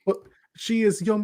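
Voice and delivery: high, grand proclamation; hint of a pompous royal introduction; mock royal herald. Co-host announces the queen's title, mock regal.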